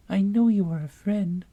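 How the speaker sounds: high, small gnat voice; tiny voice. A narrator's reading. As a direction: squeak it like a tiny insect. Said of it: "the little voice went on".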